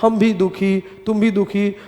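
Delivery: teacher playing a sulking wife, softly; mock sad wives. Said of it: "दोनों एक दूसरे से अब कंपेयर कर रही है". (दोनों पत्नियाँ एक-दूसरे से, धीमी नकली उदासी में)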